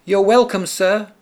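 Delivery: high, smiling mouse voice; smiling little mouse. A narrator's reading. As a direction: smile it up high like a tiny mouse. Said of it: "the mouse said, with a big smile".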